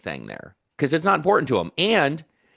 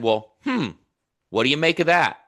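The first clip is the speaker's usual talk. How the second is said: musing hmm, then a higher-pitched open question; curious; 4 semitones higher than usual. Retold or imitated. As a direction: ask with gentle curiosity, not judgment. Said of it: "I always lead with curiosity".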